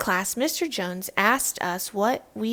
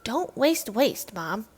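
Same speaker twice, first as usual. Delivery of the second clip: slow slogan; slower than usual. Acted. Child repeats slogan to mom.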